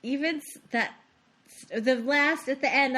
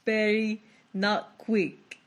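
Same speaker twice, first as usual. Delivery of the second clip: slow Arnold voice; much slower than usual. Retold or imitated. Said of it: "That is how he talks".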